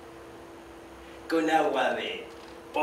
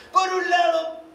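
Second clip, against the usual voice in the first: higher and louder; a raised, emphatic opener; emphatic start; 12 semitones higher, 4 dB louder, slower than usual. Acted. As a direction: launch the point with force. Restarts the phrase with emphasis.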